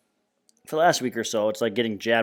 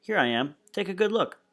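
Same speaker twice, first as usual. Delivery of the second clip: mock announcement; 4 semitones higher than usual. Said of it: "it's like".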